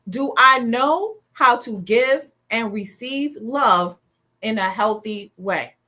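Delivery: slow, weighted question; slow deliberate question. Shown as a demonstration. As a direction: ask it slowly so it lands. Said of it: "I want you to answer this".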